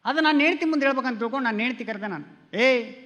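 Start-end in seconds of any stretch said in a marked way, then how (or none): 2.6-2.9 drawn-out slow calling to the wife; slowly calling out. Retold or imitated. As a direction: stretch the words as you call her. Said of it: "ಎಂದೆ ನಾನು".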